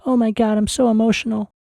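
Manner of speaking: a hammed-up teary rush of feeling; overcome with emotion. Viewer overwhelmed at the reunion, mock teary. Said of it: "And you're like".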